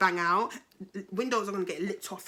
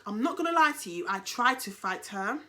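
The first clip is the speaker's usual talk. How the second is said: heated confession; 5 dB louder than usual. Retold or imitated. Admitting the fight to police.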